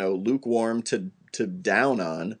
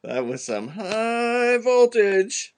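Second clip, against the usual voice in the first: high, drawn-out action-star quip; Statham impression; 10 semitones higher, much slower than usual. Host mimics Jason Statham in the cinema, hammed-up impression. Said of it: "He's like".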